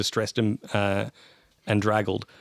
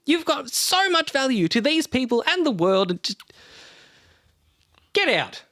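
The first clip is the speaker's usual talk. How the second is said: scornful tirade; 2 semitones higher than usual. Acted. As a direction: tear into him with contempt. Yanni berating Lord Damo.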